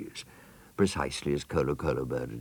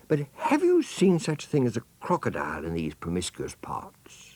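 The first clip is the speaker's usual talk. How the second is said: put-on polite child; 6 semitones higher than usual. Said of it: "said the elephant's child most politely".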